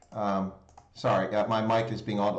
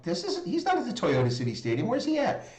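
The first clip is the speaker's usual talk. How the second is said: dawning realization; 7 semitones higher than usual. Retold or imitated. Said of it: "I'm like".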